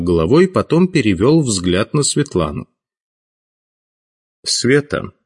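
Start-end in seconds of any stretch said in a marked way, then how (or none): 4.4-5.1 gentle, higher-pitched address; noticeably softened. A narrator's reading. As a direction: call her name gently, without pressure. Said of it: "спросил он заметно мягче". (заметно мягче)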